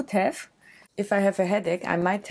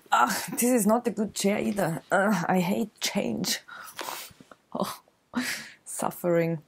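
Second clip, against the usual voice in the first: whispered complaint; 2 semitones higher than usual. Real, not acted. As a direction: mutter it to yourself, barely voiced. Complaining about new chair.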